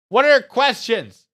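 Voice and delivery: loud, high, slow host call. Acted. Host calling to his viewers for questions, loud slow call. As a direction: call out to the chat. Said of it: "calls out to viewers".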